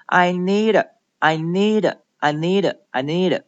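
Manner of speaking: "need" running into a softened, voiced "to"; teacher drilling "need" with an unreleased D. Shown as a demonstration. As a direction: hold back the D at the end of "need". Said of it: "把它浊化成的".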